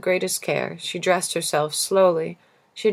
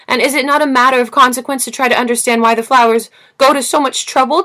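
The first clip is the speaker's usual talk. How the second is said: loud, high, impassioned tirade; a furious child defending his flower; raging; 6 semitones higher, 8 dB louder than usual. Acted. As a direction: pour it out loud and high in rage. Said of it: "was now white with rage".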